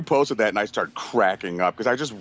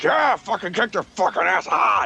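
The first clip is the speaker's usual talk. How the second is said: pitched-up triumphant cheer at the game; hyped-up gamer yell; 10 semitones higher than usual. Retold or imitated. Alone at the computer, cheering his army on in a high excited voice. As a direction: cheer your troops on, fired up. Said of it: "I was just like".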